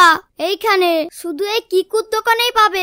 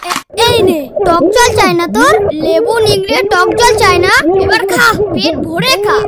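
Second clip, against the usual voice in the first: louder, furious payback; angry outburst; 4 dB louder than usual. Acted. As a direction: dump it on him and yell. Vendor angrily dumping sour water. (রাগে চেঁচিয়ে বলা)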